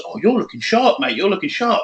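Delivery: hammed-up gym compliment; gym lad compliment. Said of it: "some guys".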